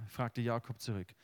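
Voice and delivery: solemn reading of the Jakob story; scripture reading. Acted. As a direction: read the passage with weight, unhurried. Reads Bible passage aloud.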